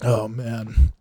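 words around a sip of coffee; sipping coffee. Real, not acted. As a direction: talk while sipping coffee. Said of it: "Sorry, I'm sipping my coffee".

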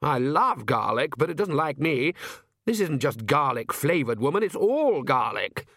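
lightly voiced affronted diner; complaining party guest.

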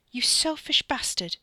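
loud, slow, high accusation; angry insult. Acted. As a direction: drag out each word in fury. Wes yells insult.

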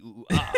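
short mock ape hoots; monkey hooting. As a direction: punctuate the slogan with monkey noises. Monkey noises in joke slogan.

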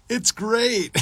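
high, bright shouted fake cheer; mock gushing. Mocking Hollywood with a shouted fake cheer. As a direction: ham up a fake Hollywood rave.

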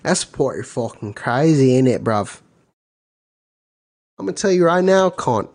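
put-on Aussie accent slipping into British; Australian accent. Trying an accent they can't do, shaky Australian accent. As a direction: attempt Australian with British slang creeping in. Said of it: "Aussie accent".

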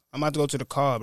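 New York accent on car. Shown as a demonstration. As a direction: drag the R in car like a Brooklynite. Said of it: "listen how we say car".

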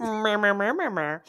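mock mumble of a forgotten name; mumbled name. Co-host teasing about a forgotten actor's name, mock mumbling. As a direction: mumble nonsense syllables in place of a name. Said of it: "put that for any actor we do not remember".

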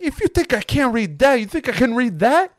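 high mocking drunk fan voice; squeaky drunk heckler impression. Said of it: "He's like".

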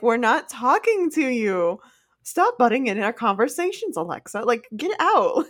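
mock scolding. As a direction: shoo off the nosy assistant. Scolding car assistant, acted quote.

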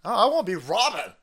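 put-on excited little kid. Four-year-old telling Mommy and Daddy, excited kid pleading. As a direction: plead like an earnest small child. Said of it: "I was like".

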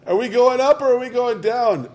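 high, sly put-on voice asking about the elevator; Tony Danza impression. Retelling friends the elevator moment, in a high put-on Danza voice. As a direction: ham up a cheeky celebrity leaning out the door.

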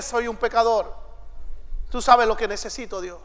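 soft, hushed plea; humble sinner's prayer. Acted. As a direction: murmur it humbly to God. Humble sinner praying again.

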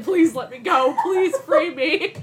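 slow, half-laughing fake sob; mock pleading. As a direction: drag out the plea like a trapped captive. Voicing Mark pleading to be freed.

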